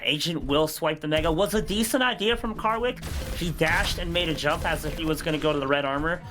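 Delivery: brisk live play-by-play; esports caster. Real, not acted. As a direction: call the match as it happens.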